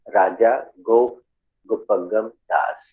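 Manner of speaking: राजा गोप गुपगम दास slowly, each ग clearly sounded; careful pronunciation demo. Shown as a demonstration. Teacher showing the class the correct ग sound, slow and careful राजा गोप गुपगम दास. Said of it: "सही उच्चारण निकलता है".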